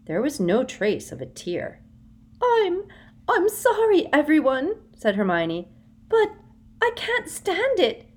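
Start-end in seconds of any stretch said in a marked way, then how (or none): 2.4-8.1 high, loud feigned sobs; fake sobbing. A narrator's reading. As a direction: pretend to break down. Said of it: "sobbing desperately".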